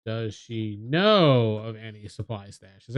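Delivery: usual speaking voice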